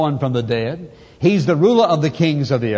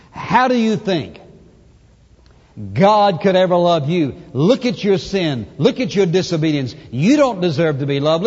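accusing devil. Retold or imitated. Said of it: "Satan pointing his finger at us and saying".

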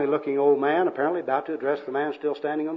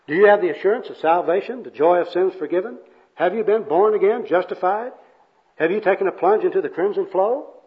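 raised, loud pious questioning; acted churchy interrogation; earnest soul-winner; 4 semitones higher, 5 dB louder than usual. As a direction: quiz them like an eager evangelist. Second worker quizzes bum in jargon.

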